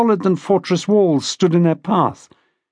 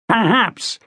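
higher-pitched, mildly scornful; spat retort; 5 semitones higher than usual. A narrator's reading. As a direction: spit the word out with mild contempt. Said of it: "Watson spat".

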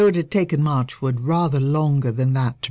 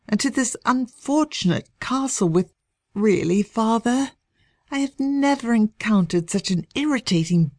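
indignant rage; 5 semitones higher than usual. Acted. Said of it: "beside herself with rage".

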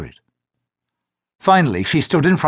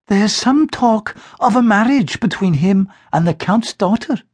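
higher, slow, gentle motherly tone; gently; 9 semitones higher than usual. Acted. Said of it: "her mother said gently".

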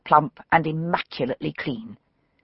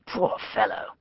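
hushed pity; 9 dB quieter than usual. Acted. Murmured over the body.

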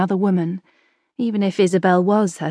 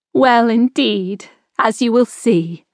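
a fond aunt's gentle pride; fondly; 3 semitones higher than usual. A narrator's reading. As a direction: speak fondly of the children. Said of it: "Isabel said fondly".

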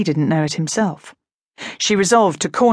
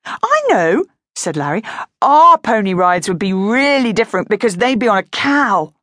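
higher, keen explanation; eager boy; 3 semitones higher, 4 dB louder than usual. Acted. Brother explaining cow rides, higher and eager. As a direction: sell the idea proudly.

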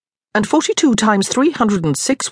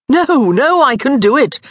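put-on drunk insistence; 8 semitones higher, 5 dB louder than usual. A narrator's reading. Tipsy Daniel insists at cards.

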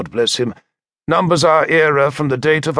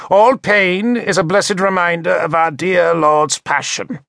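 pious bishop; 6 semitones higher, 3 dB louder than usual. A narrator's reading. Pious bishop lectures the narrator.

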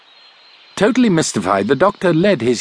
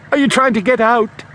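raised, higher frightened shout; a young driver shouting to a stranger, higher and louder; 12 semitones higher, 3 dB louder than usual. A narrator's reading. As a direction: call out over the engine, alarmed. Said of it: "he shouted".

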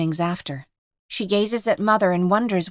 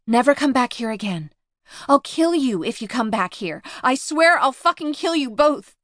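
high furious threat, rising; shrieking; 5 semitones higher than usual. Acted. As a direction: shriek it, building to rage. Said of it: "and shrieks".

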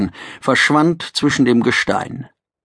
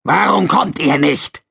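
gruff lizard voice; 5 semitones higher than usual. Acted. Topsider voiced.

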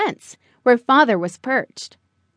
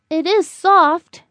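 slow, slightly raised little-bird voice; soothed young bird; 4 semitones higher, 3 dB louder, slower than usual. Acted. Buddy stroking the grass, slowly calming down. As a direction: say it slowly, softening into wonder.

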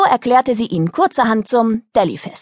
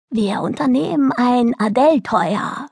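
grand announcement; 3 semitones higher than usual. Acted. Girl announcing a trip to her boat, proclaiming. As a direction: proclaim it with a sense of adventure. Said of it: "verkündete sie dem Boot".

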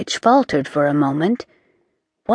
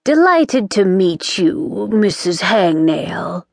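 gracious. Acted. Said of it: "as gracefully as she was able".

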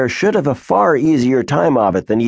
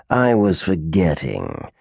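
sneering; 5 semitones lower, slower than usual. Acted. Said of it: "sneered Delamere".

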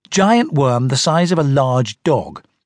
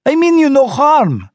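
high, louder odd creature voice; a monster insisting it is harmless; strange worm voice; 12 semitones higher, 5 dB louder than usual. A narrator's reading. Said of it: "the strange voice".

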